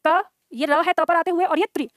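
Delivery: slow, sound by sound, "क" then "र" then "त्रि"; broken into parts. Shown as a demonstration. Teacher splitting the word कर्तृ into sounds, slowly. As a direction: spell out "क, ये र है त पर आते हुए और ये त्रि" piece by piece, slowly. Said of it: "आप उसके टुकड़े कर दो".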